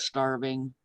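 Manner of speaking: talking with food in mouth; chewing while speaking; wolfing down food. Real, not acted. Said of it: "Sorry, I'm, like, starving".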